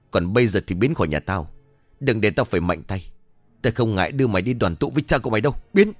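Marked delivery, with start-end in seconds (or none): 5.7-5.9 short, loud dismissal; barked order. A narrator's reading. Trung orders Vinh out of his house, barked order. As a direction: throw him out with one word.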